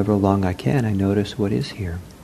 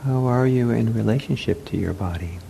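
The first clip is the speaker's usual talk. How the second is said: unhurried meditation guidance with long pauses; guided meditation; 6 dB quieter than usual. Real, not acted. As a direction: guide them gently into the body, leaving space. Leads a seated meditation.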